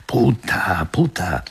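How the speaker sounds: high-pitched insult, yelled with restraint; narrated shouting. A narrator's reading. Woman storming down the stairs, restrained high shout. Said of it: "bajó la escalera como una estampida gritando".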